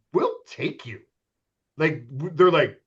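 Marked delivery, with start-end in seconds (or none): 0.1-1.0 whispered assurance; retold hushed promise; confidential promise. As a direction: whisper it like a secret deal.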